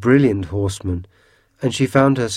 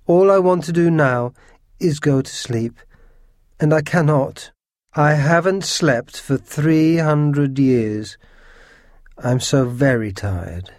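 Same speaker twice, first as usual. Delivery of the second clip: higher, plaintive lament; wailing; 5 semitones higher than usual. A narrator's reading. Ghost telling the girl he cannot sleep, wailing. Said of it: "He began to wail".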